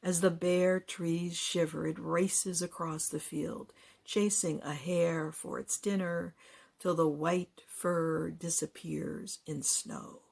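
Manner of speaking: slow, deliberate poetry reading; poem recitation. Acted. Poet sharing a winter poem, slow recitation. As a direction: weigh each image, drawing out the words.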